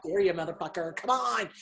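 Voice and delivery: mock angry dare. Therapist acting out her old anger for the host, mock angry dare. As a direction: dare them like someone itching for a fight. Voicing an angry person's challenge.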